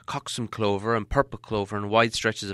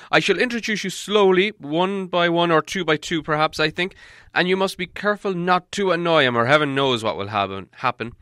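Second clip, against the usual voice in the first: put-on raised, grand old wizard voice; Gandalf voice; 3 semitones higher, 5 dB louder than usual. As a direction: speak as the wise wizard, higher and fuller. Wizard explains to hobbit.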